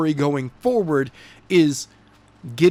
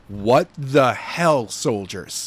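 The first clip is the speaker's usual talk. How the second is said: mock outrage; 3 semitones lower, much slower than usual. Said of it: "it would still be like".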